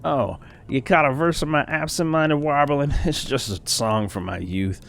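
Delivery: lightly voiced startled old man; a hint of a rambling old man. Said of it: "Let me get my old man voice".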